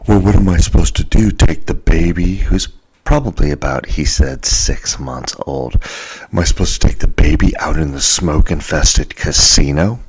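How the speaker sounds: indignant rant. Retold or imitated. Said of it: "goes off on my buddy".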